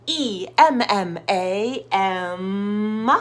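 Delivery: slow letter-by-letter spelling; slow spelled-out name. Shown as a demonstration. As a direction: spell the name out slowly for kids. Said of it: "spelled their names".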